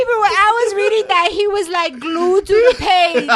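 eager gossip to co-host; excited retelling. Real, not acted. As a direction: tell it with delight.

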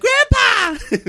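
high, loud imitation of a little kid; squealed mock-child shout; excited child's yell. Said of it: "he leaped up and he's like".

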